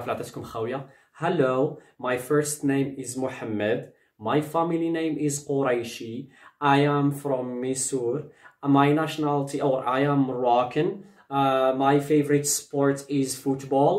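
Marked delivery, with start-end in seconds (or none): 1.2-10.9 slow, careful read-aloud for learners; slow model paragraph. Shown as a demonstration. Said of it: "تقولوا بحال هكذا ديك الباراغراف". 11.3-13.9 slow, careful sentence for beginners; slow model sentence. Shown as a demonstration. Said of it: "تقولوا بحال هكذا ديك الباراغراف".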